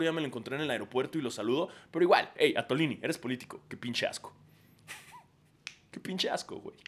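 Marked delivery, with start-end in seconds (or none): 4.9-6.8 laughing. Real, not acted. Laughing repeat.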